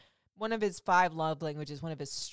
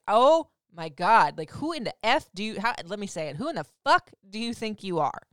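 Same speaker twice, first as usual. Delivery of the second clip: mock diva attitude; 6 dB louder than usual. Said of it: "the attitude on them that was just like".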